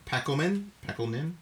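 tentative "Pakelman", questioning rise each time; unsure pronunciation. Real, not acted. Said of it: "forgive my pronunciation".

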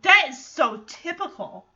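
mildly irritated retelling, rising on the accusation. Retold or imitated. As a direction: voice an annoyed woman demanding answers. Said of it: "she's irritated".

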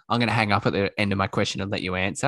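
lightly mocking caller, fast; rushed caller impression. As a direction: rattle it off fast like a talkback caller. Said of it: "when people ring Sports Talk and they're like".

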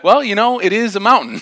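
high, loud pointing out of the obvious; retold mild correction. Hiker to the struggling girl on the trail, mild correction.

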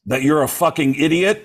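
lightly imitated rock star put-down; Gene Simmons. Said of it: "And Gene goes".

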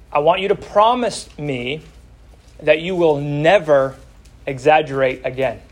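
"never" leaned on, set apart by a pause before "exaggerate"; stress on never. Father warning his son about exaggerating, stress on "never". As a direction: make "never" the weight of the promise, slowed and pressed. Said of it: "I stressed the word never".

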